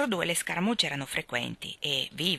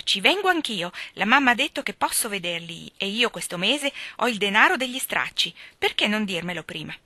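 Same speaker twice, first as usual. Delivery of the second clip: firm, louder "Ci vengo anch'io" with "vengo" hit hard; resolute; 3 semitones higher, 5 dB louder than usual. Acted. Amy firmly insisting she's coming to the theatre. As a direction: declare it, no arguing. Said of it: "aggiunse risoluta".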